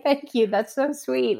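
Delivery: high-pitched, touched thank-you; flattered thanks. Retold or imitated. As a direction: play back a sweetly flattered reply. Acts own flattered reply to caller.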